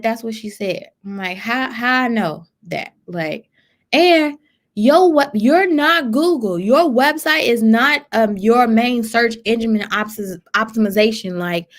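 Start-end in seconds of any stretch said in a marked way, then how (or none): 3.9-11.4 calling out business owners, incredulous. Real, not acted. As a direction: scoff in disbelief at them.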